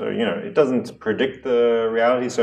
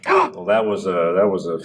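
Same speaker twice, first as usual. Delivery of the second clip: man in black. Acted. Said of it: "The man in black says".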